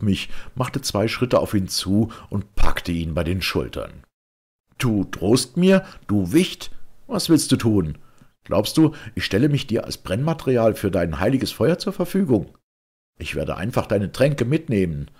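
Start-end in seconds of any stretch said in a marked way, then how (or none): 4.8-15.1 höher, lauter, langsam zornig gebrüllt; gespielte Wut. Acted. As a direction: Wut vortäuschen, um zu täuschen. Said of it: "versuchte, so viel Wut als möglich in meinen Tonfall zu legen". (Erzähler schüttelt den Mönch und spielt laut tobende Wut)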